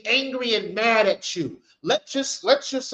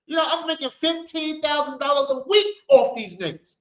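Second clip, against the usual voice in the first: lightly voiced, higher-pitched shop owner protesting; a hint of an offended owner defending his trade; indignant restaurant owner; 5 semitones higher than usual. Restaurant owner scolding those who'd stop his customers, mildly indignant and higher. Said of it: "the Chinese are saying".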